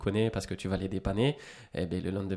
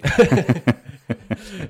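bursts out in a loud, high laugh; real laugh at the teasing; hearty laugh; 8 semitones higher, 11 dB louder than usual. Real, not acted. Host teases him about his accent, hearty laugh.

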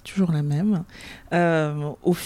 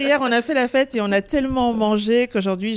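laughing; 4 semitones higher, 3 dB louder than usual. Real, not acted. Translating while still amused.

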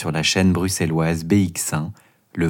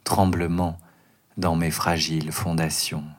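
declaiming a poem. Acted. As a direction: recite it like a stage poem. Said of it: "déclamer une version courte de ce poème".

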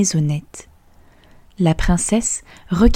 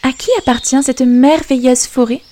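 put-on higher, curious girlish voice; princess asking; 6 semitones higher than usual. Princess asking the fiddler about the forest, higher and curious. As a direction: wonder at the forest, pitched up. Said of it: "demanda-t-elle".

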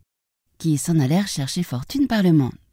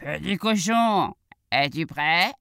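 drawn-out wolf call, only mildly raised; slower than usual. Acted. Wolf comes to fetch the piglet, lightly voiced drawn-out call. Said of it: "le loup arriva en criant".

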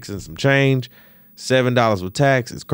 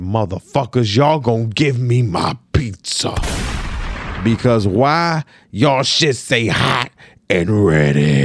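mock threat; 3 dB louder, slower than usual. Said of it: "pulls out the A K".

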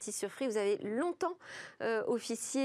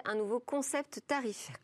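choking mid-word, words garbled; choking as the word tarifaire comes out. Real, not acted. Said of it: "pardon, je m'étouffe".

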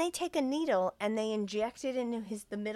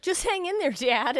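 put-on high, loud kid voice; mock child's voice, pitched way up; imitated kid; 8 semitones higher, 5 dB louder than usual. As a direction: pipe up like one of the kids. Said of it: "one of the kids are like".

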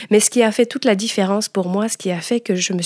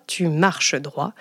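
slow, measured, lower restatement of an order; firm military maxim; 3 semitones lower, 4 dB quieter, much slower than usual. Retold or imitated. Soldier's granddaughter quoting the family rule, firm and slow. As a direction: drive it home slowly, word by word.

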